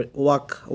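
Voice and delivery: "Walk" said with no L, like "wak"; silent L. Shown as a demonstration. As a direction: leave the L out of "Walk". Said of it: "W A এল এর উচ্চারণ হবে না". ("Walk" এ এল অনুচ্চারিত, ওয়াক)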